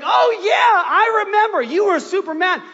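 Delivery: light up all at once as it clicks; sudden recognition. Retold or imitated. Retold sudden recognition, shouted high.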